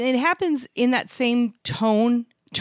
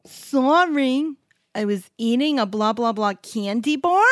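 high, drawn-out "sorry", rising like a question; whiny valley girl; 4 semitones higher, slower than usual. Retold or imitated. Mimicking the tattoo artist in the commercial, whiny questioning uptalk. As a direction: whine it, lifting the end into a question. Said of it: "the way that she said it".

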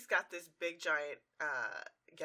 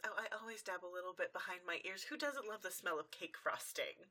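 nervous excuse; 6 dB quieter than usual. Retold or imitated. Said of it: "And Rarity gets nervous".

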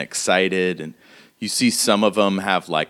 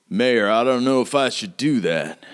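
lightly voiced reluctant henchman; a hint of a doubtful underling; hesitant guard; 3 semitones higher than usual. Guard questioning the mayor's order, lightly voiced and hesitant. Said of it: "And you hear the speaker say".

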